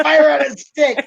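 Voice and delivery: laughing repeat. Real, not acted.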